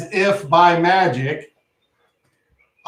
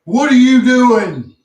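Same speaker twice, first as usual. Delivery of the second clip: creature voice; 9 semitones higher, 7 dB louder than usual. Acted.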